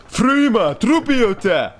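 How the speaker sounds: high, slow mock Norse accent, proudly hammed; playful put-on Norwegian accent; Norwegian viking accent. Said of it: "mon accent ... de norvégien, de viking".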